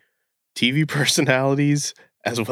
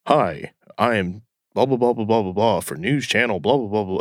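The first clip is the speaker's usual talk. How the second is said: lightly mocked anchor patter; deep anchor voice. Mocking a local anchor's on-air voice, measured patter. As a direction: put on a hint of a newscaster's delivery. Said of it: "He gets that deep".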